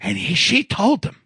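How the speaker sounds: imitated Italian-American threat, laugh breaking in; Italian guy accent. Coworker quotes wife's warning, Italian guy accent. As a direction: report it in Long Island Italian accent. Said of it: "he talked like this, Italian guy".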